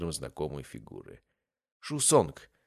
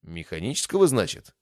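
scoffing; 3 semitones higher, 5 dB louder than usual. Acted. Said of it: "фыркнула Сонг".

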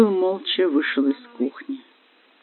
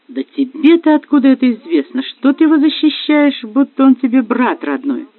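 sharp, higher and louder jealous challenge; husband lashing out at his wife, angry and loud; angry retort; 9 semitones higher, 5 dB louder than usual. Acted. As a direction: throw the question back at her in anger. Husband confronts wife over suspect.

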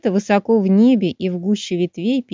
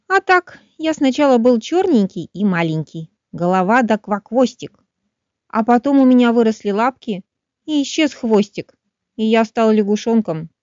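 excited frog; 2 semitones higher than usual. Acted. Frog explains to finch.

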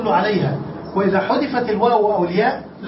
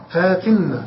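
slow model form; 2 semitones lower, slower than usual. Shown as a demonstration. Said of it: "هكذا".

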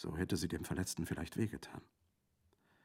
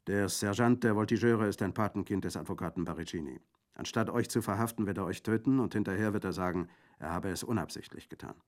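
gruff bandit warning; 2 semitones higher, 4 dB louder than usual. Acted.

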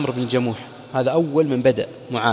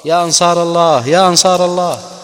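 rising call, louder and higher each time; retold loud cry; 5 semitones higher, 8 dB louder than usual. Bilal calling for helpers against Umayya, building to a shout. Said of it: "ثم صرخ بأعلى صوته".

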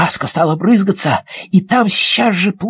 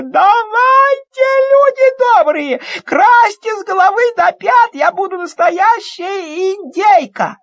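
squealing with delight; 13 semitones higher than usual. Acted. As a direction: squeal it, thrilled to bits. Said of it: "завизжала от восторга".

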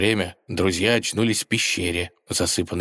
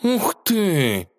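high, thrilled gasp of delight; cat sees a meteor shower, high and thrilled; 11 semitones higher than usual. Acted. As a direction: bounce up with excitement. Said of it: "подпрыгнул от воодушевления".

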